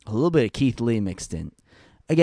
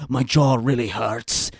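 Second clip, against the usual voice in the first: mock hurt jaw; 3 semitones lower than usual. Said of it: "He's like".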